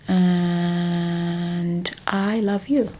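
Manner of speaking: breathy, slow whispered I love you; tender whisper. Shown as a demonstration. Tender phrase demo, unvoiced whisper.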